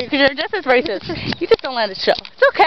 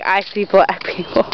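imitating movie line; 7 semitones lower, slower than usual. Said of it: "You're like".

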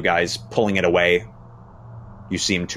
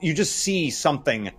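raised, deliberate horror storytelling; dramatic narration; 5 semitones higher, 4 dB louder than usual. A narrator's reading. Game master revealing a crushed man's injuries to players, dramatic and grave. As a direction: draw out the gruesome reveal with pauses.

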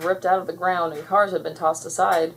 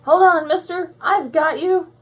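high, loud rescuer's shout; calling out; 11 semitones higher, 7 dB louder than usual. A narrator's reading. Blossom rescuing the man from his car, calling out. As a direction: call urgently over the flood. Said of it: "Blossom called out".

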